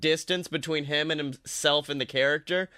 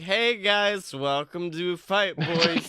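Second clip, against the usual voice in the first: mock hungover host; slower than usual. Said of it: "if somebody was doing it hungover".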